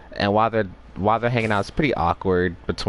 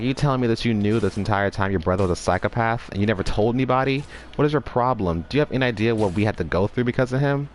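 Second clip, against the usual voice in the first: fast mock tirade, rising in pitch; mild mock yell, questions fired off quickly; retold angry yelling; 2 semitones higher, faster than usual. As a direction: act out a heated telling-off without really raising the volume. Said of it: "he starts yelling at him".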